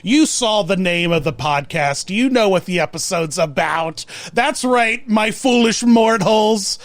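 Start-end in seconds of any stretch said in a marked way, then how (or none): 4.3-6.8 booming echoing villain monologue. Acted. Haunted Mansion host parody.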